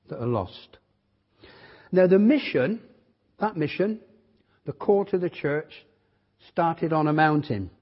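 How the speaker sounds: measured sermon delivery with weighty pauses; preaching. Real, not acted. Visiting preacher sets out the church's mission to the congregation, preaching. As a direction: preach it in short, emphatic phrases, pausing between them.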